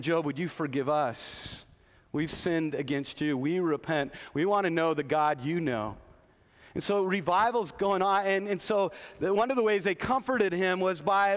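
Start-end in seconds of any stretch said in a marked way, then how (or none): 0.0-6.0 humble repentance. Retold or imitated. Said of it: "they come with humble hearts".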